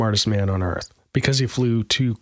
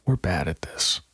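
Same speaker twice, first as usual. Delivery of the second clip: whispering; 5 semitones lower, 5 dB quieter than usual. Real, not acted. Whispered aside to co-host.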